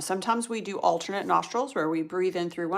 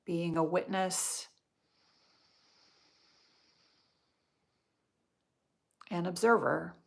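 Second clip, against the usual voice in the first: guided meditation. Real, not acted. Yoga teacher guiding students through nostril breathing, meditative. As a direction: guide the breath gently, leaving space between phrases.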